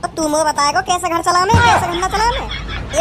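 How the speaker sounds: high, slow sneering mock; slow high mocking jeer; mocking taunt. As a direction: drag out the taunt with contempt. Angry bully mocking the passenger.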